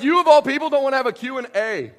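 mock exasperation. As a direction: rib him, loud and high. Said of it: "I'm like".

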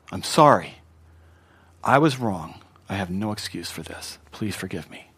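humble apology, dropping low and soft; sincere apology. Shown as a demonstration. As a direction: own the fault, fading to a quiet plea. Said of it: "if it's sincere".

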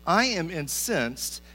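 slow, measured mock outrage; incensed. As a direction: voice Jonah's indignation, drawing out each word. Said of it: "burning with anger".

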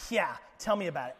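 a hint of a sarcastic eye roll, quick; eye-rolling sarcasm. Eve grumbling to the serpent, lightly sarcastic. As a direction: toss it off like she's sick of the rules. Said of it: "you can almost hear the eye roll".

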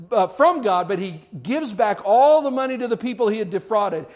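high, loud preaching at full force. Acted. Preacher proclaiming Zacchaeus's forgiveness to the church, high and loud. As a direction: preach it out to the congregation.

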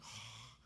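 soft acted sigh of exasperation; frustrated sigh. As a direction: let out a weary, frustrated oh. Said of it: "he had to be so frustrated".

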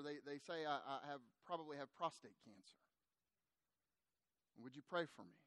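low, soft retold confession; subdued confiding. Chuck asks the pastor for prayer, subdued confiding. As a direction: let it drop low and hushed.

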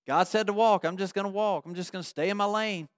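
soft, unbothered murmur to oneself; quiet resolve. Acted. Israelite under insults just keeps walking, quiet resolve. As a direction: let the insults pass, softly.

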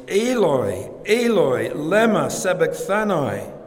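loud retold cry, pitch lifting then falling on each word; Jesus crying out. Preacher quoting the cry to God from the cross, calling out loudly. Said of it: "Jesus cried out in a loud voice".

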